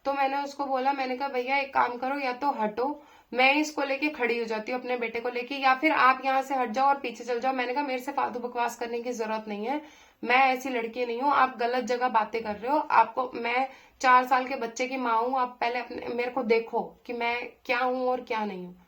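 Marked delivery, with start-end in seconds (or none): 1.3-7.5 stern, loud telling-off; retold angry scolding. Woman scolding a stranger to move seats, loud and angry. 7.8-18.8 loud, indignant scolding; retold angry rebuke. Mother rebuking a pestering young man on the bus, loud and indignant.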